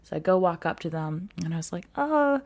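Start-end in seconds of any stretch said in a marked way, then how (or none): 1.9-2.4 higher, hesitant, nervous try at Chinese; shaky nervous Chinese. Retold or imitated. Learner nervously greets old shop ladies, in hesitant higher Chinese. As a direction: ask timidly, like a shy learner. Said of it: "very weird and shaky".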